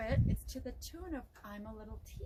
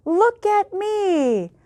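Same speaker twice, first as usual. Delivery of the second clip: slow, gleeful groundhog calling out; mild excited shout; 8 semitones higher, 19 dB louder, much slower than usual. Acted. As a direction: call out with delight after dancing a jig. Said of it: "He twirled and shouted".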